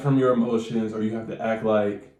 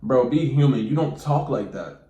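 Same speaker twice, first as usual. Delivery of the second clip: loud exasperated plea; 2 semitones higher, 3 dB louder than usual. Acted. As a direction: call them out, exasperated. Scolding viewers.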